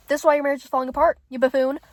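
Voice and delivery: fast, exasperated telling-off; annoyed rant. Real, not acted. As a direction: rattle it off, fed up with a character. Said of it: "Okay, I need to calm down".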